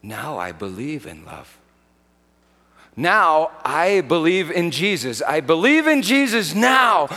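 put-on a kid at the campfire getting carried away with conviction; mock testimony swelling from hush to fervor; imitating a camper's testimony. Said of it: "say something like this".

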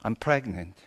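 low, soft mumble; mumbled confession. Retold or imitated. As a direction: mumble it under your voice.

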